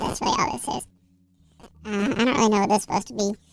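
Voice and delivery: high-pitched voice. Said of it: "this is just high pitch".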